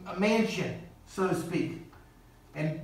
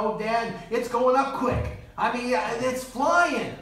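eager son; 3 semitones higher, slower than usual. Retold or imitated. Son answering father, voiced.

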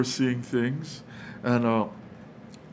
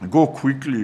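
louder, pressing urgency; urgent command; 3 semitones higher, 8 dB louder than usual. Retold or imitated. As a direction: hurry them out the door with it. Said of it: "There was urgency".

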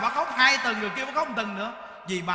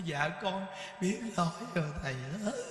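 mock remorseful plea; 3 semitones lower than usual. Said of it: "Nói".

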